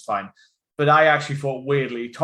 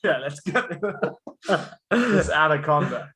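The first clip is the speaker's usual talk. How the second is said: Jon Voight; 2 semitones higher than usual. Retold or imitated. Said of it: "He's like".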